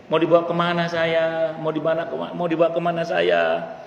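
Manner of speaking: a restrained imitation of crying out; retold cry. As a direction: imitate someone calling out to family in protest. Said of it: "teriak dia".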